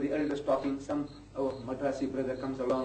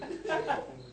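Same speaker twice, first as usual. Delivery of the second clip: short laugh; 12 semitones higher, 5 dB quieter than usual. Real, not acted. Laughs after joke.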